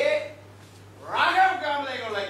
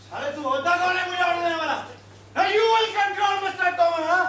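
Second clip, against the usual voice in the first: put-on drunken fury; 4 semitones higher than usual. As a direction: put him in his place, drunk and raging. Drunk boss rages at employee. (नशे में गुस्से से ऊँची आवाज़)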